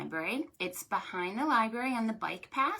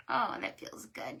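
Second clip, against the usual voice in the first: breathy relief; 5 dB quieter than usual. Real, not acted. Soft stretch relief.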